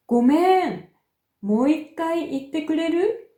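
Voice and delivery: 語尾の「くれる？」を上げて問いかける; uptalk. Shown as a demonstration. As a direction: end くれる？ on a clear rising tune. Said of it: "語尾を上げて発音します". (語尾を上げる依頼口調)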